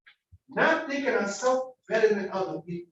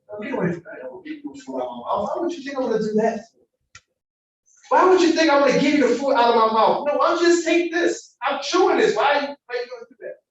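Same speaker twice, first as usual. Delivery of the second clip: louder, indignant imitating refusal; hammed-up disgust at the request; mock outrage; 4 semitones higher, 5 dB louder than usual. Preacher imitates how we'd refuse the rude lady, mock indignant. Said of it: "exactly how I said".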